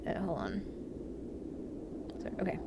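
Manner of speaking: softly whispered. Real, not acted. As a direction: whisper it so as not to drown the audio. Quiet before message.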